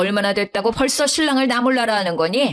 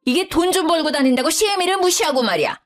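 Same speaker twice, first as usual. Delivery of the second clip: high-pitched angry mother-in-law demanding an apology; yelling mother-in-law; 7 semitones higher than usual. Acted. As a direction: shout her down from outside the door. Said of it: "소리를 지르더라고요".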